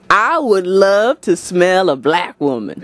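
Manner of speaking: put-on drunk guy. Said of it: "he says".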